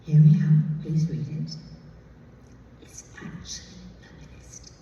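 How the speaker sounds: plead, then drop to a confiding hush, Oxford-tinged; Mary Herron impression. Director urging Gwyn to read the book, pleading then hushed. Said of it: "so this is how she talks".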